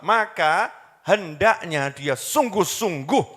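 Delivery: sungguh-sungguh drawn out slowly and leaned on; slow deliberate stress on sungguh-sungguh; pressed emphasis. Shown as a demonstration. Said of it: "ditekan betul".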